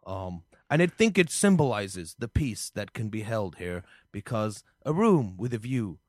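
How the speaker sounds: measured politician making a solemn point; John Kerry. Acted. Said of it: "uh, Mister Kerry".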